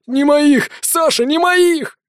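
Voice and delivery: high, loud panicked denial, slowing; desperate denial. Acted. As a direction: deny it in panic. Accused man denies in panic.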